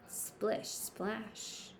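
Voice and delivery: whispered splash sound word; soft splash. Acted. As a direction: hush the splash. Sound word in picture book.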